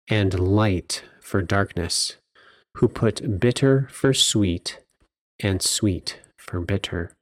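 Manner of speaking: slow, deliberate reading of the verse; solemn scripture reading. Acted. Podcast host reads Isaiah's woe oracle to listeners, solemn and slow. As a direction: weigh each line of the oracle slowly.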